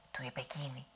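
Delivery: ordinary delivery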